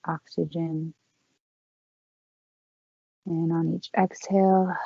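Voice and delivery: calm, unhurried yoga-teacher voice with long pauses; guided breathing meditation. Real, not acted. Yoga teacher leading the class in four count breathing, calm guided meditation. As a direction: guide them gently through each breath, leaving space between phrases.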